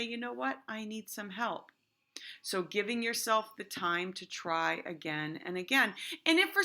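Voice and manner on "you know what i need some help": soft, fast and calm; teacher showing a calm way to ask for help; calm request. Shown as a demonstration. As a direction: ask for help calmly, without fuss. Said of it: "But in a confident".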